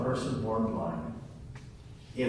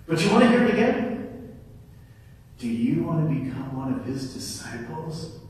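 mocking retort, sharp then dry; healed man mocking the Pharisees; sarcastic; 4 dB louder than usual. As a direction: needle them with sarcasm. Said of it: "Very sarcastically".

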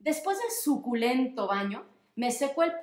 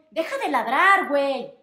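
louder, telling off the dog; scolding the dog; 7 dB louder than usual. Acted. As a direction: snap at the barking dog to stop. Owner scolding barking dog.

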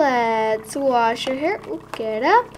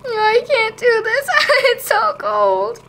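mock whine; 10 semitones higher than usual. Doll whines about cold.

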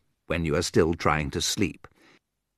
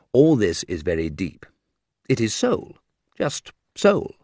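mock reverence. Mock reverent about soul.

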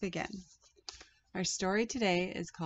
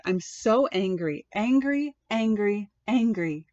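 put-on angry child; 3 semitones higher, 4 dB louder than usual. Boy repeating angry, sobbing.

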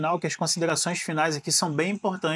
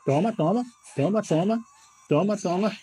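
taunting; 2 semitones higher than usual. Real, not acted. Taunting while hitting opponent.

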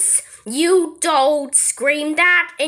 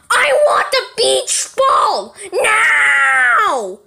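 much higher, louder crying demand; screaming tantrum; 8 semitones higher, 3 dB louder than usual. Acted. Kid demands the beach ball back, crying scream. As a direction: wail it like a kid at the end of his rope.

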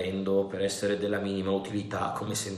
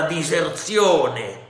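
diserzione slow, drawn out and falling; stressed word; 6 semitones higher, 7 dB louder, much slower than usual. A narrator's reading. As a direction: lean hard on diserzione. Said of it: "calcò sulla parola diserzione".

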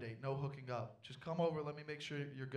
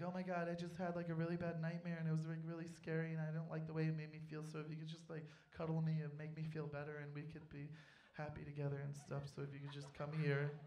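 whiny ex; 5 dB quieter than usual. Retold or imitated. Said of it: "be like".

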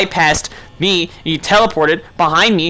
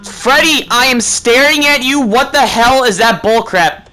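indignant; 3 semitones higher than usual. Real, not acted. Scolding game character after death.

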